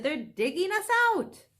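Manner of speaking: high, loud alarmed cry; urgent shout. Acted. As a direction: warn them in panic. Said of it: "he shouted".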